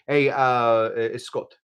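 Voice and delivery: imitated Italian cook; mock Italian accent, casually done; horrible Italian accent. Quoting Italian friends who taught him cooking, bad Italian accent. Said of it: "Horrible Italian accent".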